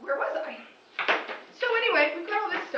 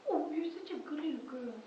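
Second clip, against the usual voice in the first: mock praise; 9 dB quieter than usual. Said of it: "little mouse".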